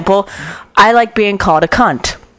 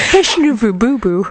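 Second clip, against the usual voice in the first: mock baby talk, higher; 5 semitones higher than usual. Co-host teases with silly baby words, mock baby talk. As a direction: coo it like to a puppy. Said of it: "how we talk to our six-year-olds".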